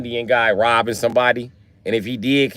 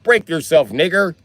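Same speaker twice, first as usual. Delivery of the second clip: raised mock white-guy voice; white guy's voice; 5 semitones higher, 4 dB louder than usual. Robber using a recorder's white guy voice, mock imitation. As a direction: put on a louder white guy's voice. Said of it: "It can even be a white guy's voice".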